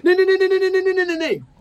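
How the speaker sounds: shrieked, very high string of panicked refusals; Ringo. Acted. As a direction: scream in horror without a break. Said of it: "hur han blir helt blek".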